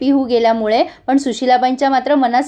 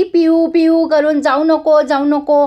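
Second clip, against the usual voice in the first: mild mock shriek; 3 semitones higher, slower than usual. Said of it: "मोठ्याने किंचाळतीये ती".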